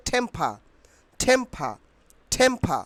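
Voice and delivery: টেম্পা with a puffed, breathy-release T; crisp model pronunciation of টেম্পা, opening on "th"; aspirated T. Shown as a demonstration. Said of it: "কি হবে?".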